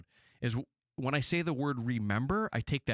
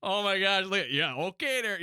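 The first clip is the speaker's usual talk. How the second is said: hammed-up Yooper accent, higher, louder; mocking Midwestern accent; 9 semitones higher, 4 dB louder, slower than usual. Man mocks friends' Midwestern accent at a wedding. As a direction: lay the Midwestern accent on thick. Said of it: "I'm ripping on my friends".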